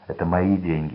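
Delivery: ordinary delivery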